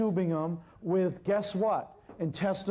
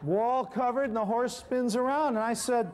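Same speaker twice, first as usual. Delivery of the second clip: telling it through real laughter, a little higher; can barely keep from laughing as the story gets absurd; laughing while recounting the messy horse; 4 semitones higher than usual. Real, not acted.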